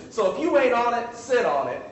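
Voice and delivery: playful sass; sassy punchline with a laugh. Shown as a demonstration. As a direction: toss it off with attitude. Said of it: "speak colloquially".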